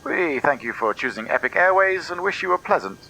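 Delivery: lightly voiced captain's cabin announcement; airport announcement. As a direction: read it like a pilot on the intercom. Pilot's cabin address.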